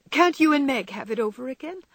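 put-on a touch of anxious girl; anxious question. A narrator's reading. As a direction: ask it anxiously. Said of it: "asked Beth anxiously".

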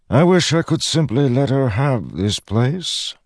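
lightly voiced menacing god; a hint of a smooth villain; Odium voice.

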